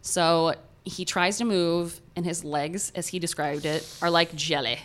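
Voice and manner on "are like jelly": a hint of a British accent on jelly; attempted British accent. Retelling pilot's words, faint British accent. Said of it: "I don't know if that's the right accent".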